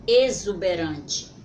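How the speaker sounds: "exuberante" called out loud and slowly; loud model word. Shown as a demonstration. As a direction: project "exuberante" to the whole class. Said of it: "Vamos separar essa palavra?". ("exuberante" dito alto e devagar)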